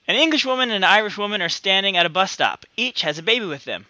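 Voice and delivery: put-on deliberately botched British accent, Dick Van Dyke style; bad English accent. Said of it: "Dick Van Dyke my accent".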